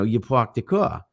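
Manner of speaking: demonstrated New York accent. Shown as a demonstration. Comparing city accents, New York accent. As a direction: say "park the car" the New York way, dropping the r's. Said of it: "New York".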